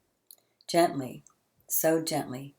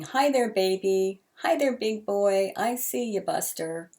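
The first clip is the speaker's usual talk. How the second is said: put-on old man cooing, pitched up; calling to a baby; 4 semitones higher than usual. Ragged old man calling to the baby, lightly voiced coo.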